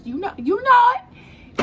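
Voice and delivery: slow, loud, high and sultry; sexy voice. Pretend. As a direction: purr it out, drawn out and seductive. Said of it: "In my sexy red voice".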